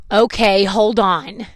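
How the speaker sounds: mock an annoyed clerk giving in; imitated frustration. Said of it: "being all mad and frustrated with me".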